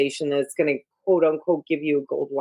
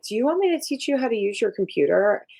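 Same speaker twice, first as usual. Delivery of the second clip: eager roommate; 6 semitones higher, faster than usual. Retold or imitated.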